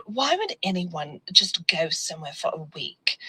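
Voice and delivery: soft mock-British accent; a touch of put-on British, voice dropped. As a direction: imitate a disdainful Brit, lightly accented. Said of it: "And they're British".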